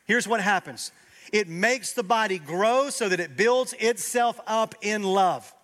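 loud, high sermon climax; rising pulpit fervor; fervent preaching. Acted. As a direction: preach it with full force. Preaching at full force.

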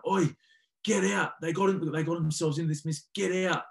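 high, loud yelling coach; retold angry shout. Coach yelling at a player at halftime, loud angry shout. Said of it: "John Mitchell was, like, going".

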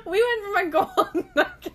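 laughing through the protest; words breaking into laughter. Real, not acted.

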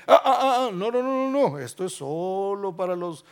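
lightly voiced God wagging a finger; preacher voices an imagined exclusive God; mock God refusing.

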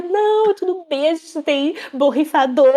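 imitating the posh owner pretending everything is fine; shrieking polite owner. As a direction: force calm through panic. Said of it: "a mulher dizia".

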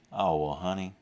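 mock-kindly put-down, softening with a chuckle; kind-sounding insult. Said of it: "kind-sounding way of saying".

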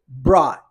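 "brought" falling, ending on the open vowel, no T heard; "brought" with its T dropped; silent final T. Shown as a demonstration. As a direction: say "brought" as a short "braw", the T swallowed. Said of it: "Mas olha a pronúncia".

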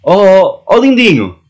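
high, loud teasing call; mock sweet greeting. Co-host tests a sweet nickname, high teasing call. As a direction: coo at them like a darling.

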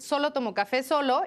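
Solo tomo café solo with solo stressed the same both times, no contrast; both solo said alike. Shown as a demonstration. Demo for the host, both solo the same. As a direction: say both solo identically, no distinction. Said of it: "lo pronuncio exactamente igual".

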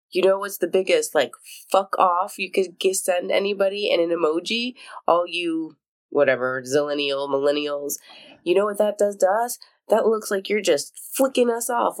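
lightly voiced ranting millennial; TikTok rant. Podcaster quoting a TikTok rant about the thumbs up emoji. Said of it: "that TikTok where it's like".

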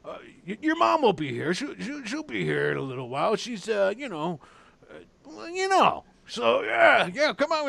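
high and loud, stumbling over awkward news; a big man fumbling for words about her mom; flustered barkeep. Acted. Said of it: "he's like".

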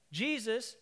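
ordinary talk, nothing marked

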